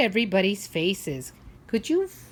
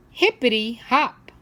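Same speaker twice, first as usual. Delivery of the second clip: put-on little boy; 3 semitones higher, 6 dB louder than usual.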